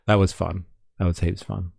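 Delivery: whispered "That was fun."; a soft unvoiced whisper. Real, not acted. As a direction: breathe it out under your breath.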